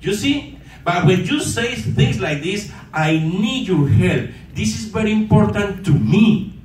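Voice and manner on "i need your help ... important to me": sincere ask. Shown as a demonstration. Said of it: "It's totally different".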